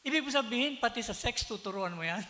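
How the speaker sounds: loud, indignant challenge; angry brother-in-law. Retold or imitated. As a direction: hurl the question at him in outrage. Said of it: "Galit na galit". (galit na tanong ng bilas)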